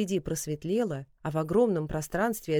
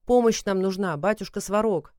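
shouting; 2 semitones higher, 5 dB louder than usual. Acted. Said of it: "продолжал кричать Калидар".

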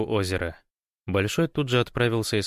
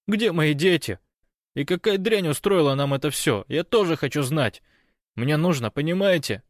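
higher, louder pleading with a hint of tears; anxious, tearful; 7 semitones higher, 4 dB louder than usual. Kostya pleads anxiously with his friends, near tears. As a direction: plead with a touch of crying. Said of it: "тревожные плачущие нотки".

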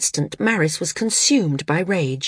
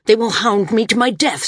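raised, indignant complaint; higher and a touch angry; 4 semitones higher, 4 dB louder than usual. A narrator's reading. Landsman tells San how Maris threatened him, angrily. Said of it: "the landsman said angrily".

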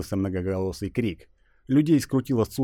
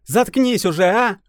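irritated snap; 13 semitones higher, 8 dB louder, slower than usual. Acted. Irritated girl snaps.

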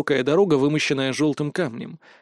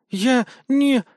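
crying; 10 semitones higher, 3 dB louder than usual. Acted. Girl starts crying.

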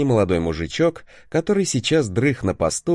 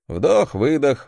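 slow breathing cue; 3 semitones higher, slower than usual. Shown as a demonstration. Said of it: "старайтесь дышать носом".

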